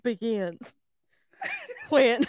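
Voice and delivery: halting Southern drawl; Southern accent. Pretend. Cohost struggling through the recap, halting Southern accent. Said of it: "do it in your most Southern accent".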